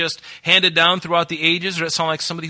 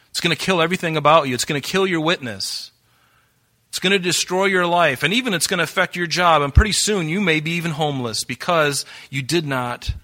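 rising warning; 3 semitones higher than usual. Acted. God's warning builds.

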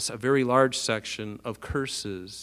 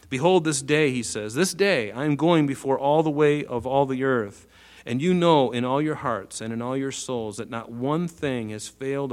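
Bible verse read out louder, opening on Behold; scripture reading; 3 dB louder than usual. Acted. Preacher reading Joshua's deathbed words aloud, proclaiming.

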